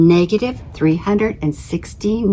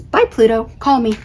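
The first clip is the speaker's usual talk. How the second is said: flirty Saturn; 4 semitones higher than usual. Acted. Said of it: "Saturn says".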